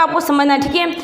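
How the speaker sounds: normal talking voice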